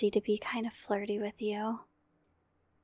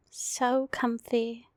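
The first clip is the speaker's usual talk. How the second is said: drawn-out contented murmur; slow tender sigh of comfort; slow and cozy; much slower than usual. Acted. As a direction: savor the coziness slowly. Cuddling sleepy partner.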